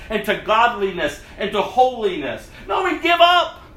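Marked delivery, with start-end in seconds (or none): 2.7-3.6 shout. Real, not acted. Preacher rebuking the church.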